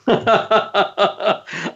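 a breathy delighted chuckle; soft laugh. Real, not acted. Delighted at niece's joke.

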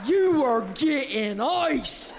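high, slow, loud commanding yell; Linda yelling. Retold or imitated. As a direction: order her down like a rowdy bar regular. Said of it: "Linda yells".

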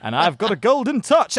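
American accent falling apart into British; American accent collapsing; American accent slipping. Shown as a demonstration. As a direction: lose the American accent on the catchphrase. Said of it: "it was so convincing until the quintessentially British catchphrase".

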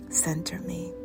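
breathy whispered plea; whispering. Acted. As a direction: whisper it to yourself.

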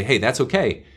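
gloss it over indulgently, pitch slightly lifted; lightly acted, too-easy sympathy; pandering. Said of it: "you can pander to them and say".

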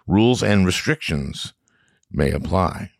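upbeat sponsor read, spelling out the address. Acted. Host reading a Babbel ad to listeners, upbeat ad voice. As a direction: sell the deal to listeners.

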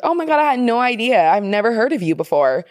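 high mock amazement, easing down to normal; mock surprise. Friend meeting the girlfriend she never heard of, mock surprise. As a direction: imitate someone making a show of having had no idea. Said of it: "why are you saying it like that".

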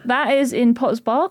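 rising, unsure question on Potter's Bar; questioning rise. Real, not acted. Unsure where the college is, questioning rise on "Bar". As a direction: lift the end of "Bar" into a question. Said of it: "question mark?".

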